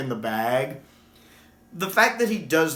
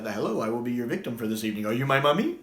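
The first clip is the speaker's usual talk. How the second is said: quick Capaldi quote; faster than usual. Retold or imitated. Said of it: "The way he says that".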